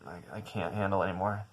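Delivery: hushed, exasperated grumble; soft, worn-down irritation; irritated, under the breath. Retold or imitated. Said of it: "getting more and more irritated".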